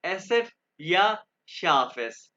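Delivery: एसेट या शार्फ एस said slowly, each word apart; slow careful naming. Shown as a demonstration. Teacher naming the sharp s for students, slow. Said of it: "लेकिन इसको कहते हैं एसेट".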